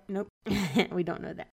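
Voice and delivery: laughing at own mistake. Real, not acted. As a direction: chuckle through the correction. Catching own misread.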